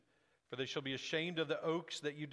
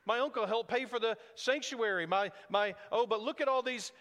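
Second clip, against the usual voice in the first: hammed-up boasting of good works; mock self-justifier; 4 semitones higher than usual. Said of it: "we love to say".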